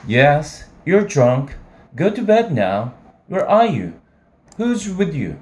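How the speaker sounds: put-on scolding young woman. Sally scolding drunk caller.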